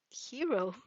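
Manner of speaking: half to himself, stunned; mumbled. Acted. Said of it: "he mumbled".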